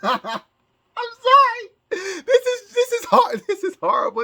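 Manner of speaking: high, teary laughing squeal; crying with laughter. Real, not acted. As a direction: laugh so hard it turns to tears. Overwhelmed by shocking news.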